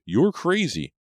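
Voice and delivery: high, loud terrified scream. A narrator's reading. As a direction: scream it at her in panic. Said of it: "Brady screamed".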